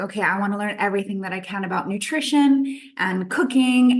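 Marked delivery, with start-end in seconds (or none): none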